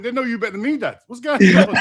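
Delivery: imitating son. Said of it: "my son went".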